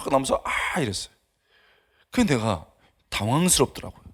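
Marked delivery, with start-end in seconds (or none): 0.4-0.8 brief mock sob; imitated crying. Preacher mimicking a student crying through mascara, light mock sob. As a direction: mimic a tearful "ah". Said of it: "검은 물이 쫙".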